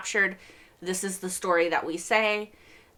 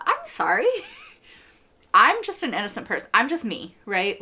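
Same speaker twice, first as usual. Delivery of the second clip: tag; 4 semitones higher, 3 dB louder than usual. Acted. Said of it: "let's insert myself into this".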